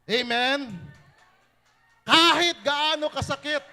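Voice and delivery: loud, high preaching at full force. Acted. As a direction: exhort them loudly to forgive. Preacher exhorting to forgive.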